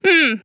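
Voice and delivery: short, gruff grunted hmm; badger grunt. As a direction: grunt it, unimpressed. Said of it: "then grunted".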